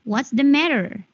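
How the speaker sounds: American "matter" with a final r; American accent. Shown as a demonstration. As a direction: say it American, r at the end. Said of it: "Bedakan aksen Amerikan dan British".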